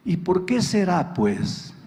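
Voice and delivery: wife asks it dryly, in a plain even voice; a first, calm sly jab; wry wife's question. Retold or imitated.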